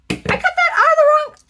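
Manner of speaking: sudden high squeal at her mistake; dismayed shriek. Real, not acted. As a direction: yelp it out, caught off guard. Realizes she cut wrong paper.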